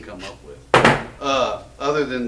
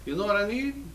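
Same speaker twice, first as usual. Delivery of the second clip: high-pitched monster quote; Loch Ness Monster; 8 semitones higher, 6 dB louder than usual. Acted. Loch Ness Monster asking for a gun, high put-on voice. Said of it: "The Loch Ness Monster would come in and say".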